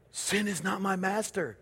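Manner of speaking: very soft, voiced near-whisper; hushed. Shown as a demonstration. Preacher showing what to say when tempted, hushed. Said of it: "Sometimes you just need to whisper it".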